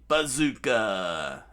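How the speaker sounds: called-out attack. Acted.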